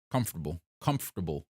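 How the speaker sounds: "Comfortable" repeated as KUMF-uh-ter-bul; practising the word. Shown as a demonstration. Streamer practises the word for chat, repeating it. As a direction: drill "Comfortable" twice, evenly. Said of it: "It's definitely not comfortable".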